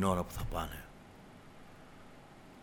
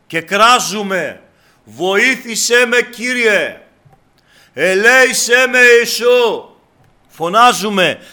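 full-force preaching; 12 semitones higher, 16 dB louder than usual. Real, not acted. Preacher urges believers to stay on the narrow road, shouted exhortation. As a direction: drive every word home, stretched and loud.

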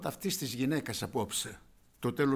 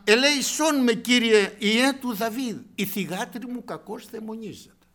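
pleading mother; 7 semitones higher, 8 dB louder than usual. Retold or imitated. Preacher voicing the desperate mother crying to the Lord, high and loud. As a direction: beg the Lord for your daughter. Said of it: "λέγουσα".

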